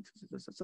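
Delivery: quiet hissing "tss" of a winch lowering a load; light tss tss of a lowering crane; soft imitated machine hiss. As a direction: mimic a hoist creaking down with soft tss sounds. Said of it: "como con un gato".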